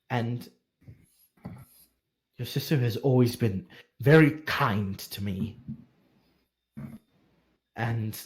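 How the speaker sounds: hint of a devoted maester at his wits' end; weary, worried maester. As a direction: confess it heavily, half to yourself. Maester's confession.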